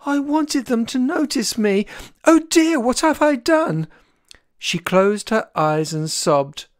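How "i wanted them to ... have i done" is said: tearful. A narrator's reading. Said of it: "a tearful Chick".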